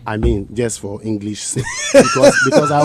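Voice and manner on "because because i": laughing through the words. Real, not acted. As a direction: explain while breaking into real laughter. Laughs while explaining guns.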